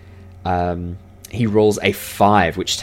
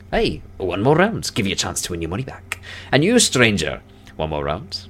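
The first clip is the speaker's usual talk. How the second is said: coaxing dwarf. Acted. Winner to losing gamblers, coaxing another round. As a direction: coax the losers back into the game.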